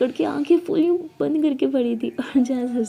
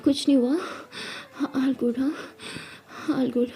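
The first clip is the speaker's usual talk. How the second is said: soft self-reassurance; 5 dB quieter than usual. Acted. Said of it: "खुद को control कर रही".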